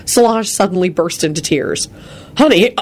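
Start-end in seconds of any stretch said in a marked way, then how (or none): 2.4-2.8 higher, concerned question; anxious checking-in; worried. Acted. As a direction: ask with gentle worry, pitch lifted. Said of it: "Quentin asked her worriedly".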